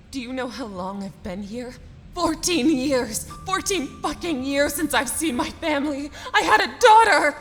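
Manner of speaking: desperate shouting. Acted. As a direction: cry out in anguish for a lost family. Prisoner begs to go home.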